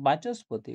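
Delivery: বাচস্পতি with the visarga sounded as a dental s. Shown as a demonstration. Teacher shows students how visarga changes in sandhi, visarga as s. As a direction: say বাচস্পতি with an s before the পতি. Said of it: "বিসর্গটা দন্ত সর মতন উচ্চারণ হচ্ছে".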